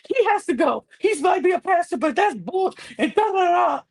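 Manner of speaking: high-pitched fake crying voice; hammed-up weepy pleading; mock tearful complaint. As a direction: imitate someone weaponizing tears to win allies. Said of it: "weaponizes the tears that she has".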